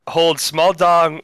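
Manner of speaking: slow, word by word; spaced-out words, one at a time; staccato. Shown as a demonstration. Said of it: "One word at a time".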